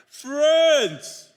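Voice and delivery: lightly voiced Jesus; fond call. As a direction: savor the word. Preacher savoring Jesus' word.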